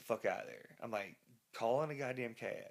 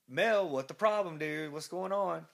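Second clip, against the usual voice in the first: alarmed; 4 semitones higher, 4 dB louder than usual. Retold or imitated. Alarmed passengers question reckless driver.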